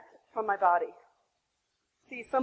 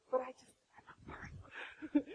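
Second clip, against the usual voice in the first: choked up; 11 dB quieter, much slower than usual. Real, not acted. Mother recalling baby placed on her belly, choked up. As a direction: voice gone to a real whisper.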